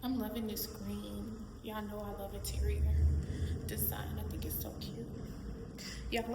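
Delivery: soft, hushed indoor talk. Real, not acted. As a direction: keep it down, arriving late. Entering the building late, hushed.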